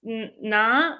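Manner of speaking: imitated announcer stumbling over "Irina"; halting name reading. Announcer calling the winning twins to the podium, halting name reading. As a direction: sound out "Irina" in slow, uncertain pieces.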